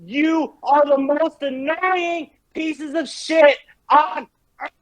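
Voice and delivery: high-pitched, contemptuous tirade at a rival player; scornful, enraged insults pitched high; raging trash talk. Real, not acted. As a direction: tear into the gamer with real fury. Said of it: "Cactus is raging".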